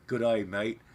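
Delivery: attempted Australian accent greeting. Shown as a demonstration. Non-Australian greeting a viewer, trying an Australian accent. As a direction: put on a casual Aussie accent. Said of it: "Australian accent".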